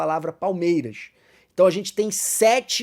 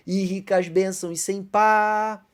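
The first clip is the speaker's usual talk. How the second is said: very slow, drawn-out reading of the hymn verse; slow hymn line; 2 semitones higher, slower than usual. Shown as a demonstration. Teacher quoting a hymn verse to the class, slowly drawn out. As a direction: stretch each word of the hymn line. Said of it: "Esses quatro versos compõem uma estrofe".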